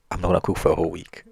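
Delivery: loud, quick mock threat; annoyed wife. Annoyed wife threatens her laughing husband, loud and fast. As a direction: fire off an exasperated ultimatum.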